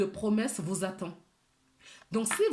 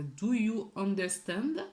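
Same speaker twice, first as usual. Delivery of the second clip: French-accented English; slower than usual. Real, not acted. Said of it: "J'ai un accent pourri".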